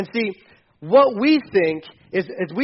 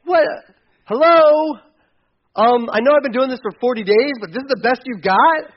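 scoffing Goliath; 4 semitones higher, 5 dB louder than usual. Retold or imitated. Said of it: "He's like".

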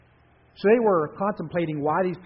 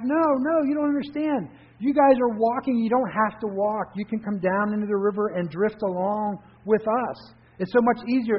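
raised, high pleading call across the water; yelling back; 6 semitones higher, 4 dB louder than usual. A narrator's reading. Drifter yelling back to the bank people, eager loud call. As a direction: shout back, urging them to come down. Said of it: "So he yelled back".

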